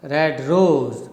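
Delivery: "red" lighter, ROSE long and falling; iamb, stress on ROSE. Shown as a demonstration. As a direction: let "red" lead into a weighted "rose". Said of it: "third iambus".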